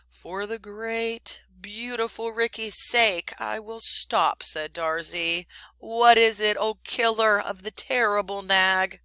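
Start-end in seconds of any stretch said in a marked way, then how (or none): 0.1-4.4 fawning little bird. Acted. Darzee the bird speaks. 5.8-9.0 fawning little bird. Acted. Darzee the bird speaks.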